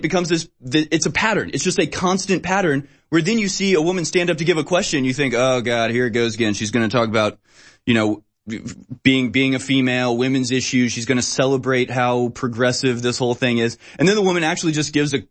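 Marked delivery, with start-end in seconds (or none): 5.3-13.8 lower, groaning mock sigh of boredom; a bored inner groan, pitched low; weary eye-roll. To himself as a woman stands to ask, weary groan.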